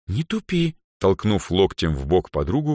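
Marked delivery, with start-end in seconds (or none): 0.1-0.8 high, dismissive snort of words; impatient girl, raised pitch; snorting scorn. A narrator's reading. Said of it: "фыркнула Эльза".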